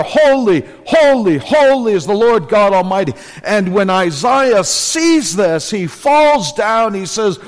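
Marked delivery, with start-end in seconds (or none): 0.0-3.1 seraphim crying out. Acted. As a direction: proclaim it like the angels crying out. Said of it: "As the seraphim cry out".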